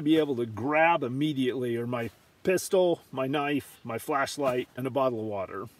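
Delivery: hushed night voice; softly, for the tent at night; quiet. Real, not acted.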